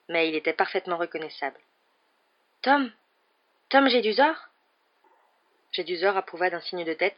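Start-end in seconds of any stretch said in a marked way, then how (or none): 2.6-4.4 high, startled question; stunned, high recognition of Tom; surprised. A narrator's reading. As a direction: recognize him in shock. Harry startled by apparition.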